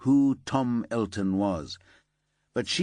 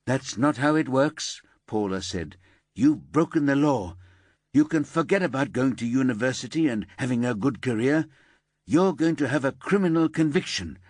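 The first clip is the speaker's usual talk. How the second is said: firm, slightly louder detective; stern reproach; 4 semitones higher, 3 dB louder than usual. Acted. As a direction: give no quarter. Paula lays down the law.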